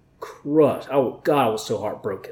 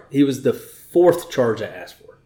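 fourth said a little firmer; stress on fourth. Real, not acted. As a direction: lean on fourth to correct. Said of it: "not the first, fourth".

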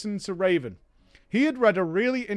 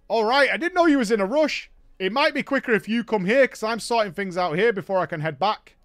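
higher, louder mock bloke; pushy friend, voiced a bit louder; imitating Raven; 3 semitones higher, 5 dB louder than usual. Raven telling the narrator to come to Ratchet, louder mock voice.

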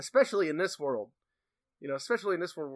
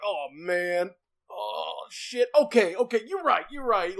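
high, flustered mock apology; sheepish giving in; 5 semitones higher, 4 dB louder than usual. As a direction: cave in, embarrassed and quick. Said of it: "Gummons is like".

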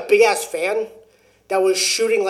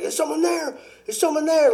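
retold yell; 10 semitones higher than usual. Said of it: "he's trying to yell".

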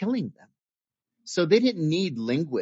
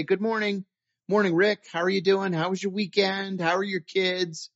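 friendly higher-pitched morning greeting; amigável; 5 semitones higher than usual. Retold or imitated. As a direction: imitate a cheery office hello. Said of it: "who was very friendly".

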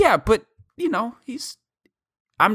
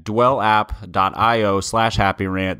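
ad read; 2 semitones lower, slower than usual. Acted. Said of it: "tell us about Dwell".

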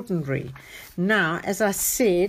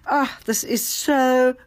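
high, delighted gush; 6 semitones higher than usual. Real, not acted. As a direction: gush over the picture. Reader delighted by book.

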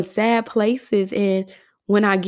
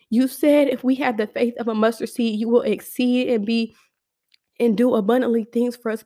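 heartfelt spoken prayer, pleading at times; earnest prayer. Real, not acted. Praying to God on her podcast, earnest prayer. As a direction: pray aloud to God, humbly and openly. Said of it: "I'm just gonna pray".

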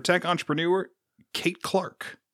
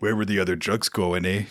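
a thin, hammed-up Canadian accent; bad Canadian accent; 7 semitones lower than usual. Joking with his co-host, a mock Canadian Batman in a bad Canadian accent. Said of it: "What a terrible Canadian accent".

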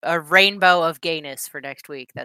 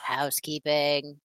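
mock formal. Shown as a demonstration. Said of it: "our little housekeeping".

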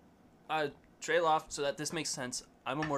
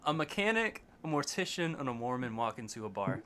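leaning into the mic; 3 semitones lower than usual. Real, not acted. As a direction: clear and close to the mic. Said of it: "lean into the mic and give us that one again".

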